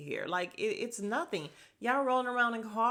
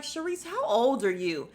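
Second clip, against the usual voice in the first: higher, exasperated scolding; 3 semitones higher, 5 dB louder than usual. Retold or imitated. Me scolding Sharice for ignoring Wendy, exasperated. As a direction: call her out, incredulous. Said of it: "And I'm like".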